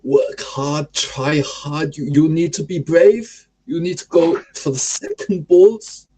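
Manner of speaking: lightly put-on Danish coach accent; Thomas Frank Danish accent. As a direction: team talk in a mild Danish accent. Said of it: "like a fucking school teacher".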